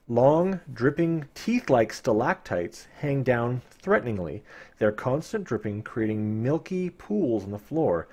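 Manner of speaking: story narration. Acted. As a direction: paint the dank cavern for listeners. Reading gamebook narration.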